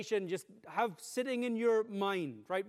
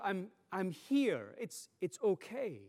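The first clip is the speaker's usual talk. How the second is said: slower soothing; 2 semitones lower, slower than usual. Shown as a demonstration. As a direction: settle the child, slowing right down. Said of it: "often we repeat it".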